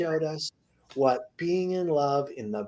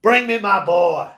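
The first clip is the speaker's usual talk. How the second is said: demanding shout; 7 dB louder than usual. Acted.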